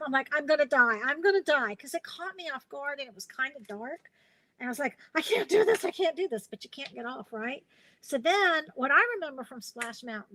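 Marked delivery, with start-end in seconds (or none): 0.3-1.8 lightly acted terror, a little louder; hammed-up fear of dying on the ride; mock panic. 5.2-6.5 higher, louder retold panic; playfully hammed-up dread, pitch jumping up; mock panic. Retold panic before the drop.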